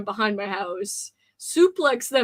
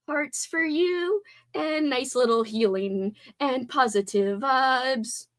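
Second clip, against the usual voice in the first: slow, drawn-out ASMR voice; playful ASMR; 2 semitones higher, slower than usual. Pretend. Streamer sending healing vibes to a viewer, playful ASMR. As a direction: send it out slowly, like an ASMR blessing. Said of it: "That's A S M R for ya".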